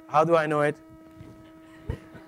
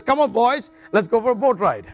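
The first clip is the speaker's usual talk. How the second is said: eager invitation; 4 semitones higher than usual. Acted. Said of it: "rubbing his hands together and says".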